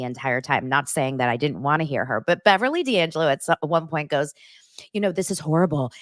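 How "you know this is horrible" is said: smoker's voice. Retold or imitated. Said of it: "She talks like this, by the way. She has such a smoker's voice".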